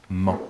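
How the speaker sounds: "man" said alone after a pause; low, carefully set-apart "man"; isolated syllable. Shown as a demonstration. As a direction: read out "man" as one separate syllable. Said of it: "Je te répète".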